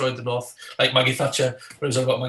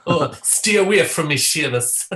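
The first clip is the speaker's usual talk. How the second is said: bad Irish accent; 3 semitones higher, 4 dB louder than usual. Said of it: "Brad Pitt's in Devil's Own".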